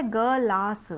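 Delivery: गलास said slow with no vowel after ग; without the i. Shown as a demonstration. Teacher shows the word before adding the vowel, slowly. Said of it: "हमें एक गिलास चाहिए".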